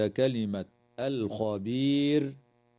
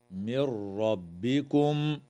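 recited stop; slower than usual. Shown as a demonstration. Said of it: "ويجوز الوقف على قوله تعالى".

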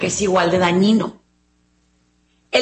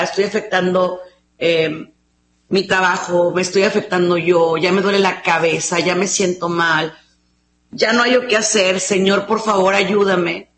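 pleading prayer; 3 semitones lower than usual. Acted. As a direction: pray it humbly, asking for help. Acted prayer to God. (rezo suplicante, más grave)

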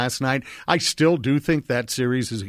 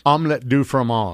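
put-on French accent. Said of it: "what is another French term?".

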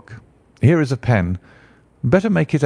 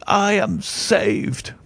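even higher and very slow, drawn-out cry of relief; joyful relief; 7 semitones higher, much slower than usual. Acted. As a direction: stretch the relief out, savouring it. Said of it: "With a shriek of joy".

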